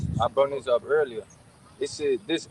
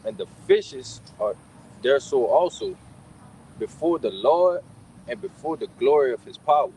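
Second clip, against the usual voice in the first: slow, measured verse reading; scripture reading. Real, not acted. Reading about the earthquake to the group, deliberate scripture reading. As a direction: read it out phrase by phrase, with weighty pauses.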